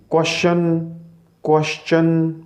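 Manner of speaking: "क्वेश्चन" in faulty variants, kosh-un, then kosh-chun; mispronunciation demo. Shown as a demonstration. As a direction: show the wrong sh sound in "क्वेश्चन". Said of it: "इसका तलफ़ुज़ अदा नहीं करना".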